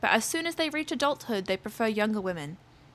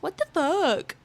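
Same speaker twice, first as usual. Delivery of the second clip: put-on higher, bratty child parroting her; mocking kid voice; 4 semitones higher, slower than usual. Kid mocking her after she yelled, bratty parroting voice. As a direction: mimic her words like a smug brat. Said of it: "He mocks me and goes".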